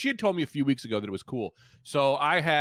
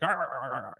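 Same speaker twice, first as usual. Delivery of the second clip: mouthed chainsaw revving noise; imitated chainsaw; 4 dB quieter, slower than usual. Purge-goer shaking his chainsaw, imitated revving. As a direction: rev a chainsaw with your voice, lightly. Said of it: "I start shaking it".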